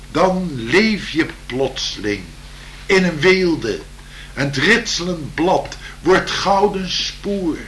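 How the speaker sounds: slow, lilting poem reading; poem recital. Acted.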